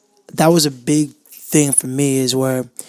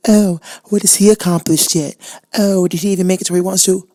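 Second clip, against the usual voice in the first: raised, sneering doubter's voice; mocking commenter; 5 semitones higher, 4 dB louder than usual. Imagined commenter doubting what he has accomplished, mock sneer. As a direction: needle him like a skeptical commenter.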